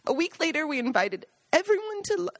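fighting back tears, high and tight; choked up. Real, not acted. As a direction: voice catching with tears. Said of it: "Sorry for getting choked up".

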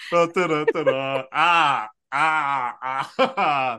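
mouth-made gunfire petering out; imitated gunfire winding down; bullets running out. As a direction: sputter like an emptying gun. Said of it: "The bullets just running out".

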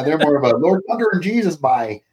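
lightly done Nova Scotia accent. Shown as a demonstration. Canadian corrects host's impression, Nova Scotia accent. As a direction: show a touch of Maritime Canadian accent. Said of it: "where I went with Nova Scotia".

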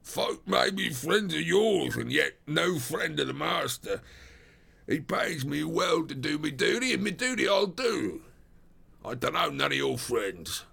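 high, gruff stubborn doorkeeper; inexorable porter. A narrator's reading. Porter refusing strangers for the master's sake, inexorable. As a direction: stand firm on duty in a rough voice. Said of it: "said the porter inexorably".

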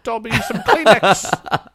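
high, slow squeaky house elf; Dobby impression. Host playing Dobby thanking his master, high and slow. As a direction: squeak it out like a grateful little elf. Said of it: "as Dobby the house elf".

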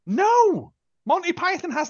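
high, emphatic protest. Real, not acted. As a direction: shoot the idea down hard.

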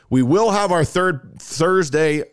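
slow, stretched, fumbled announcement; stumbling slow take. Real, not acted. Host flubs the show promo and restarts it slowly. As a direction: drag it out and lose the thread. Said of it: "Good God".

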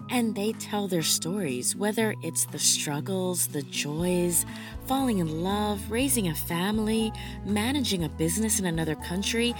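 measured, scripted host read over music; podcast intro. Real, not acted. Host welcoming listeners to an expat podcast, scripted intro read.

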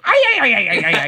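high, yelping botched Irish accent; badly faked Irish accent, breaking into laughter. Shown as a demonstration. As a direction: yelp out a hopeless Irish lilt. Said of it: "he would do his Irish accent".

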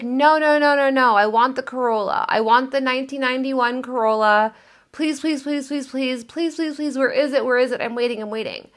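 put-on high, pleading, petulant child; whiny pleading. Woman begging the universe for the Corolla, petulant whine. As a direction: beg like a spoiled kid stamping her feet. Voicing a whiny insistent self.

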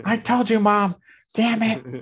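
high, loud triumphant taunt; playful gloating son; mock told-you-so. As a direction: gloat at mom. Mock scolding his mom.

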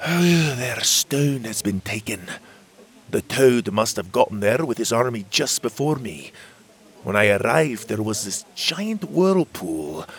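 fairy sighing over lost stone; grave report. Acted. Magborn reports grim news.

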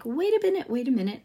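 high-pitched start, easing down on the repeat; lightly acted interruption to stop the class; teacher calling halt. Teacher halting screaming students.

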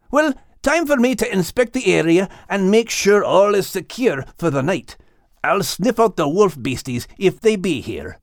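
a loyal sheepdog asking his friend; Scottish dog Max. Acted. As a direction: Max asking Liz what to expect, lightly Scottish. Max sets off on watch.

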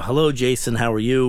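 put-on heavy Latin accent. Senior dealership guy greets the customer, heavy Latin accent. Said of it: "with the, the heavy Latin accent".

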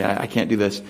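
Daniel politely declining the king's food, gracious; gracious refusal. Retold or imitated. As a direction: turn it down kindly and humbly. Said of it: "he says graciously".

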